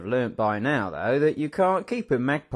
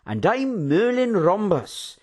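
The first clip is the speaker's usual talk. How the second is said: cheery introduction; 7 semitones higher, 4 dB louder, slower than usual. A narrator's reading. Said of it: "with a cheery smile".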